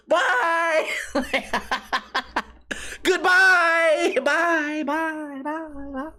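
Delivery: high, drawn-out mock farewell, fading away; calling goodbye. Customer escaping as door shuts, high fading mock goodbyes. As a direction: sing out byes that trail off into the distance.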